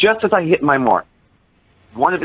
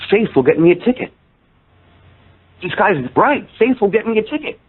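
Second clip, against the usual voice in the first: high, elated retold realisation; excited conviction; 9 semitones higher than usual. Convert whose knees buckled, declaring his new faith excitedly. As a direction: burst out like a new believer.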